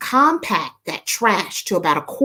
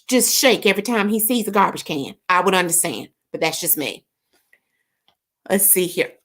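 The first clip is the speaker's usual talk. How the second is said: ordinary talk, nothing marked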